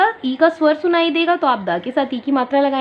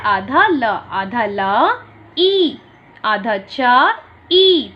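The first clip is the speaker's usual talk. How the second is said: slow syllable blending; much slower than usual. Shown as a demonstration. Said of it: "तो ये क्या लिखा है?".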